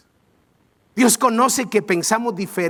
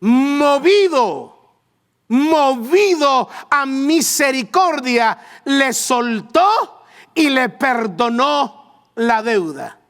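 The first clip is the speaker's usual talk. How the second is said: slow and louder, stretched; slow emphatic reading; 4 semitones higher, 3 dB louder, much slower than usual. Shown as a demonstration. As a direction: lean hard into movido. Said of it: "lectura enfática". (lectura lenta y enfática)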